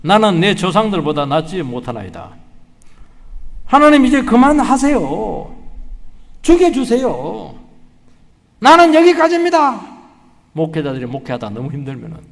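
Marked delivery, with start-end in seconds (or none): 0.0-2.3 slow, solemn plea to God; preacher voices Elijah begging for death, slow and solemn; Elijah's prayer. Retold or imitated. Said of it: "뭐라고 얘기하냐니까". 3.7-9.8 slow, rising into a loud cry; beg, building to a high loud wail; anguished plea. Retold or imitated. Elijah pleading with God to let him die, anguished.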